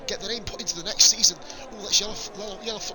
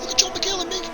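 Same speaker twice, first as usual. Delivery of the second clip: excited; 11 semitones higher than usual. Real, not acted. Excited commentary on a battle.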